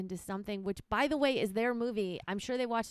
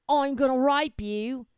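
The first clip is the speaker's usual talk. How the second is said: slow, much louder menacing line; joke attacker voice; 5 semitones higher, 11 dB louder, slower than usual. Pretend. Wife acts out her joke's attacker, loud and slow. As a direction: boom it out slowly as the punchline villain. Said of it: "when they say no".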